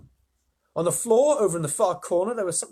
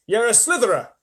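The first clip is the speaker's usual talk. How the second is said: higher, louder jeering; mocking centipede; 7 semitones higher, 8 dB louder than usual. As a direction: sneer it out loud.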